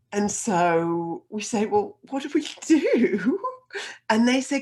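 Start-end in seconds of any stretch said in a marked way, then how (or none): 1.7-3.4 high, loud, drawn-out mock wail; helpless wail. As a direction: wail it slowly in comic despair. Helpless students asking the RSPCA.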